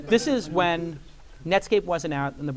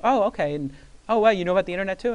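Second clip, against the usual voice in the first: amazed, higher and louder; surprised; 5 semitones higher, 6 dB louder than usual. Retold or imitated. Barry marvelling that the kid knows computers, amazed. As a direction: act impressed by the computer.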